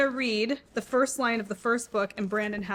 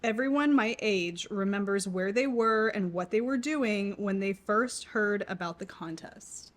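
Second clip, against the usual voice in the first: slow reread; 3 dB quieter, slower than usual. Shown as a demonstration. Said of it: "if you need me to reread it".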